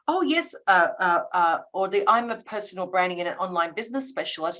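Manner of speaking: crisp, fast, sure one-line answer; clear confident pitch. Pretend. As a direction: rattle the title off quickly with confidence. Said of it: "if I articulate and say".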